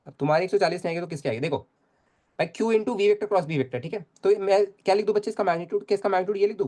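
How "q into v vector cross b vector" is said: slow, word by word; slow dictation. Shown as a demonstration. Teacher repeating the formula for the class, slowly. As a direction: drag the formula out for students. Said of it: "teacher restating formula slowly".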